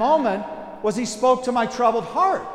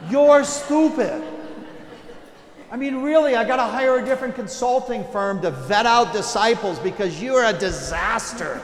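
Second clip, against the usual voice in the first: mock exasperated rant; 3 semitones higher, 4 dB louder than usual. Preacher imagines a fed-up Jesus, loud mock rant. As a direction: ham up an impatient boss. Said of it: "he doesn't say that".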